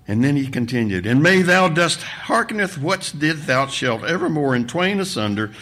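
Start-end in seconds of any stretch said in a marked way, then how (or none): 1.1-5.5 mildly intoned mock prayer; loud monotone. A narrator's reading. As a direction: drone it out like pompous scripture. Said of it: "a loud monotone".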